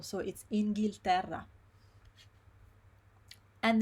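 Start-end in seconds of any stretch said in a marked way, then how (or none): 0.5-1.4 Inghilterra joined up, all syllables clear; no missed syllable. Shown as a demonstration. Teacher sums up the long word, full syllables. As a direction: keep every syllable in Inghilterra. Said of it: "You don't wanna miss syllable".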